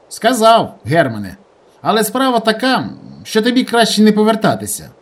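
rustic fellow relaying a phone message; lively village guy. Acted. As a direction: rattle it off like a country boy. Tolik voiced by narrator.

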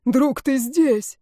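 joyful exclamation. Acted. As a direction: greet the friend you thought lost. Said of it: "восклицает воздушник".

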